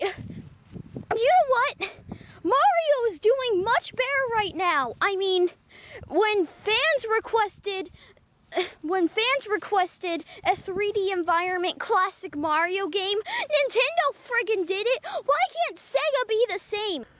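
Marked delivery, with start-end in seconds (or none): 6.1-15.0 fake crying. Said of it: "fake ass crying".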